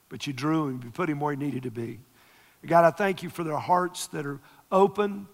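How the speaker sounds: earnest pastoral prayer building up. Real, not acted. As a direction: pray over them with rising fervor. Pastor prays for couple.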